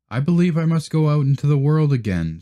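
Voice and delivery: eager little duckling, hurrying. Acted. Duckling speaks.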